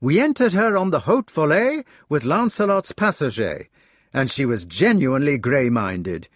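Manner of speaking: high, fast, breathless enthusiasm; a young man who can't stop talking about his hawk; eager retelling. Acted. Gareth telling his brothers of the flight, eager and high.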